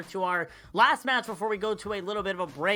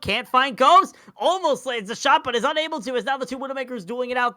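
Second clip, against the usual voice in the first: excited; 6 semitones higher, 3 dB louder than usual. Real, not acted. Tense final seconds of duel.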